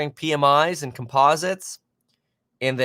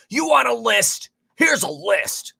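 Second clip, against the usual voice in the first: mock sassy; 10 semitones higher, slower than usual. Mock answering a viewer request.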